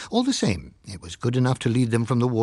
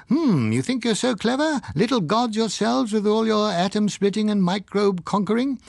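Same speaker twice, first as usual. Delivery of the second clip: higher, lofty mock God voice lecturing mankind; imagined God scolding; 6 semitones higher than usual. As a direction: play a condescending God chiding his conceited little mites. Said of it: "he was saying".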